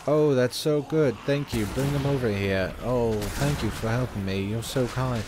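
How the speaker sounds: mock a neutral British game character; British accent. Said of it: "British people sound just so neutral".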